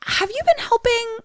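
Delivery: high, gentle priest voice; lightly voiced priest. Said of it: "Father E T says".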